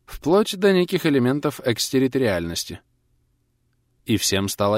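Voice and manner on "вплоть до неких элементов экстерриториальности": firm. Acted. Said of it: "твёрдо произнесла".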